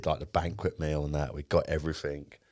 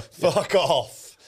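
high, loud disbelieving exclamation; can't-believe-it yelp; incredulous outburst; 11 semitones higher, 5 dB louder than usual. Real, not acted. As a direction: blurt it out, astonished at the gossip. Disbelief at friend's gossip.

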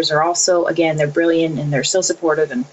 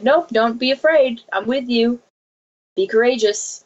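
gentle voice of the Lord; 6 semitones higher than usual. Retold or imitated. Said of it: "And the Lord's like".

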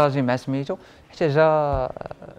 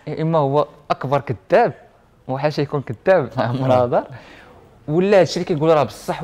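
excited; 5 dB louder than usual. Retold or imitated. Retelling his own excited thoughts.

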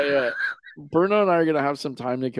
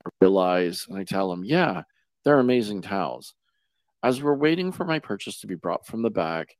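monotone ad read. Acted. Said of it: "monotone voice?".

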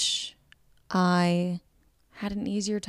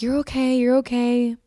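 imitated sweet reassurance; 5 semitones higher, 3 dB louder than usual. Hope was being so sweet.

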